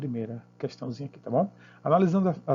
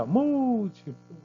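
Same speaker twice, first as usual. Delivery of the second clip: "Múltiplo" with a long, high "Múl" falling away; exaggerated teaching stress on "Múl" in "Múltiplo"; stressed first syllable; 9 semitones higher, much slower than usual. Shown as a demonstration. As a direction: hold MÚL high, then taper down. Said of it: "vai diminuindo".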